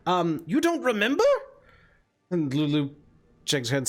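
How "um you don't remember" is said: lilting hag, higher than the narration; hag character. Acted. Hag tells Lulu what she wants to do, lilting hag voice. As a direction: answer as the musing old hag. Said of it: "the hag looks up and says".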